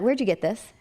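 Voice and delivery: quick question, pitched a little up; first, lighter asking; retold curious question. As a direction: ask it with interest, unforced. First asking about the ring.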